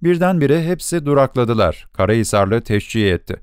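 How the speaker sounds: ordinary delivery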